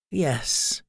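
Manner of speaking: soft, gentle reply. A narrator's reading. Beatrice answers the remorseful queen, gently. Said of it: "Beatrice said gently".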